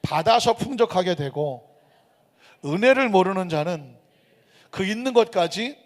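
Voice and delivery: loud, driving sermon delivery; forceful preaching. Acted. Pastor preaching to the congregation, loud and forceful. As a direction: preach it out to the whole church.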